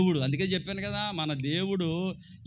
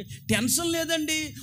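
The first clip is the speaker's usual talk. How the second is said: drawn-out carefree; 7 semitones higher, slower than usual. Shown as a demonstration.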